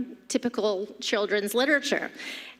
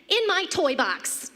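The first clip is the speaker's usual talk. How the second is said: put-on higher, innocent toddler answer; little girl; 8 semitones higher than usual. Little girl answering mom, innocent and higher. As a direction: answer sweetly like a small child. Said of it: "she said".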